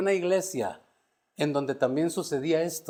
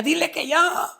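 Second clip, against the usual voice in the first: pleading; 12 semitones higher than usual. Retold or imitated. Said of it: "le decía".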